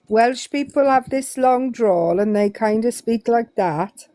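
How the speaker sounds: badly faked Welsh lilt; terrible Welsh accent. Shown as a demonstration. Shows listeners how Welsh people speak, in a bad Welsh accent. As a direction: attempt a drawly Welsh accent, poorly. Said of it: "That's a terrible, um, Welsh accent".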